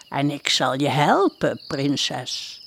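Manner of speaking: kindly witch offering help. Acted. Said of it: "fluisterde het vrouwtje".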